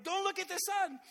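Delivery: dad telling his daughter not to look; stern parent warning. Retold or imitated. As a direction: lay down the rule.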